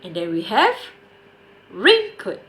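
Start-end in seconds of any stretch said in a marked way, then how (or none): 1.7-2.4 RAIN in "raincoat" pitched high; stress on RAIN. Shown as a demonstration. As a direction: hit the first part of "raincoat", drop on coat. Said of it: "the stress is on the word rain".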